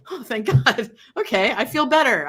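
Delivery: laughing through the words with relief; a hint of laughter, mock dog relief; relieved laughing dog. Dog thanks owner for noticing, laughing lightly. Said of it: "your dog goes".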